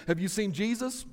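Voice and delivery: lightly acted wife's question, rising at the end; Mary's question. Mary asking Joseph about their son, lightly acted question. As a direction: ask it plainly, a touch of acting. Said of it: "Mary will look at Joseph and will say".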